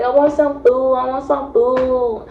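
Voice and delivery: imitating a needy drunk; drunken whine. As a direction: whine for it like a tipsy kid. Drunk self begging boyfriend for food.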